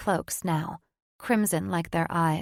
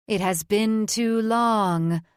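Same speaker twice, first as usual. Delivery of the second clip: snarl; 3 semitones higher, 4 dB louder, slower than usual. Acted. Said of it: "she snarled at them".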